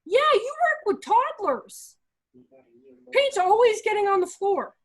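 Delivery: sarcastic. Real, not acted. Sarcastic retort to teachers.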